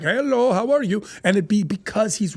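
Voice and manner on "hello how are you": put-on light Indian accent on Hello. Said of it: "He'd be like".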